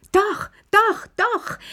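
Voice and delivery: shrieking. A narrator's reading. Lilli squealing with glee while clapping her hands. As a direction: squeal it like an excited child. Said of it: "schrie Lilli und klatschte dabei in die Hände".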